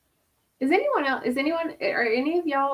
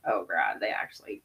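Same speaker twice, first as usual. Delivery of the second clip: low, hushed gasp of realization; dismayed whisper; 13 semitones lower, 5 dB quieter than usual. Retold or imitated. Someone realizing they hurt a friend, dismayed whisper. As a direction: whisper it as the guilt lands.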